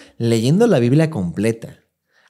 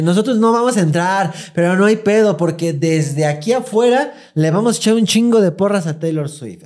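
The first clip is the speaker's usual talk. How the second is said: mock cheerful fan; 5 semitones higher than usual. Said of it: "había gente que también decía".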